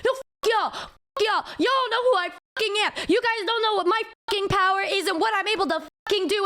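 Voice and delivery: high, indignant boasting; high-pitched mock tirade; mocking imitation. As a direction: imitate an entitled girl ranting. Imitates girl boasting in quarrel.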